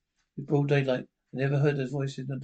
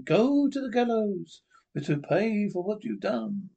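much higher accusing spirit; ghostly voice; 5 semitones higher than usual. Acted. Lost soul sending the murderer to the gallows, ghostly. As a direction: condemn him from beyond. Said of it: "Voice one".

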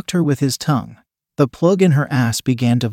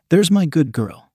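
purring; 3 semitones higher than usual. Acted. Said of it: "he purred".

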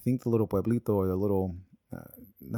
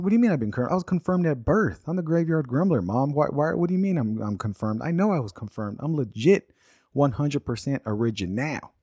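put-on indignant kid; 5 semitones higher than usual. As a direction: protest to mom in disbelief. Arguing with mom as a kid.

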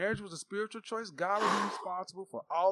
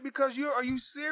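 incredulous shout; 3 semitones higher than usual. Real, not acted. Incredulous at Adam and Eve.

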